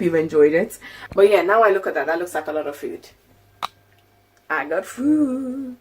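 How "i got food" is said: yawning. Real, not acted. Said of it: "I'm yawning".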